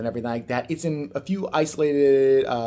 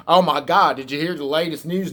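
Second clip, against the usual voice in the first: mock excited gossip; 4 dB louder than usual. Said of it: "And he's like".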